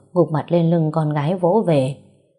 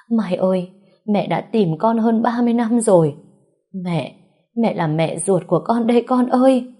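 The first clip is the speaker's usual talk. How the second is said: tearful mother; 5 semitones higher than usual. Acted. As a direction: pour out thirty years of longing through tears. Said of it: "vừa khóc vừa nghẹn ngào nói".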